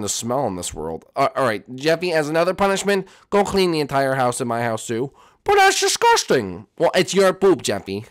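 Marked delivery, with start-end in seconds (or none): 5.4-6.7 put-on much higher, slow kid whine; whiny protest. Jeffy told to clean the house, whining. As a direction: groan out the complaint.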